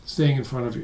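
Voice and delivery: low, soft, worn-out hello; tired voice. Shown as a demonstration. Demoing a weary phone greeting to the audience, drained. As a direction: sound drained and flat-out exhausted. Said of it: "Did you hear it in my voice?".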